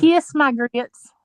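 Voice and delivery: Flo. Acted. Echoing Flo from Alice, slow Southern accent. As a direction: draw out the catchphrase in a Southern accent. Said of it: "Flo had that southern accent".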